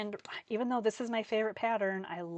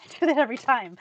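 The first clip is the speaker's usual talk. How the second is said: louder, with a laugh at yourself; laughing loudly at her own clumsiness; 4 semitones higher, 13 dB louder, faster than usual. Real, not acted. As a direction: laugh through the line, self-mocking.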